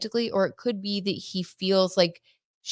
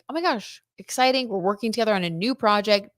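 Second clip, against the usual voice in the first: mock excited; 3 semitones higher than usual. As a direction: play their giddy first meeting. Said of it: "They were like".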